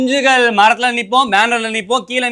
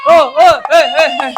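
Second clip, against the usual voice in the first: cheering; 3 semitones higher, much slower than usual. Acted. Fan leading cheers for the leader. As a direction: whoop like a crowd.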